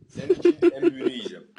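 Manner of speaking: high, loud and fast boast; excited. Real, not acted. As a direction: shout it out excitedly. Boasting to girlfriend.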